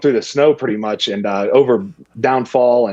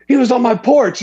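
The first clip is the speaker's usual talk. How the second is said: freaking out; 12 semitones higher than usual. Retold or imitated. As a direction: play up his alarm about the porch. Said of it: "He starts freaking out".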